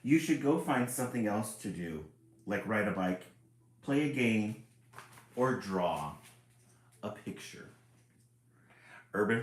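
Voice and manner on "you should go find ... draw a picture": louder, pushy grumpy book; shooing voice. Acted. Book telling reader to go play, grumpy. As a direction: shoo the reader off.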